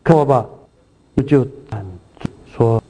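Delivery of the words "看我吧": higher, raised calling out; insistent cry of a blind beggar; calling louder. Retold or imitated. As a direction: call over the crowd. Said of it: "他却越发大声喊着说：".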